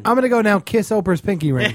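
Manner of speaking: words bubbling with laughter; laughing while talking. Real, not acted. Host jokes about kissing Oprah's ring, laughing. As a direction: laugh through the punchline.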